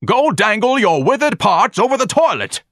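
loud, high, furious outburst; savage scream. A narrator's reading. Ignatius to Miss Trixie, screaming savagely. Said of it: "Ignatius screamed savagely".

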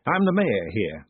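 slow, mildly nervous introduction. A narrator's reading. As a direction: introduce yourself slowly, a touch unsure. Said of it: "he said nervously".

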